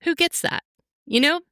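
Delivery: choked up with proud, teary wonder; getting emotional. Real, not acted. Mom telling a podcast host about her son, voice going high and teary. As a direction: voice pitching up high as tears come. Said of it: "I'm getting emotional".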